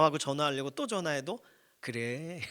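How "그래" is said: imitated tender answer, softer; a patient mother's gentle reply; loving mother. Mother answering yet another call from her child, lovingly. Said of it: "이렇게 받아주세요".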